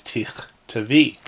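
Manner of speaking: "tichtavi" slowly, starting with a clear t; careful pronunciation. Shown as a demonstration. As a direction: sound out tich-ta-vi with a throaty ch. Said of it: "In case I pronounced it wrong".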